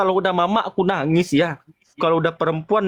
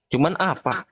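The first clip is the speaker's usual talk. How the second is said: tearful crying. Real, not acted. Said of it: "Aku nangis kayak gini".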